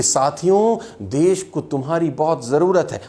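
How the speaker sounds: mock listless leader addressing a crowd; slack, limp speech. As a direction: say it loosely, with no fire. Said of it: "बहुत ढीला ढाला बोल रहे होते". (ढीला-ढाला भाषण)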